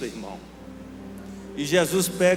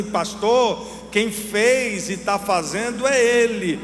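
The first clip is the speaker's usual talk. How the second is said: raised, emphatic and drawn-out declaration; fervent preaching; 4 semitones higher, 3 dB louder, slower than usual. Retold or imitated. Preacher telling the pastor who deserves the glory, fervent. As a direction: build to a loud, high proclamation.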